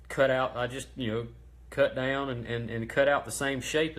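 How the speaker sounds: stumbling over words; stuttering. Real, not acted. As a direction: restart words while stammering. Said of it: "I know I'm stuttering and umming".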